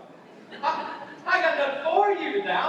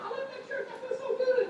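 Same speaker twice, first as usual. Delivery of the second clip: gushing churchgoer; 8 semitones higher, 6 dB quieter than usual. Retold or imitated. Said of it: "really inspirational".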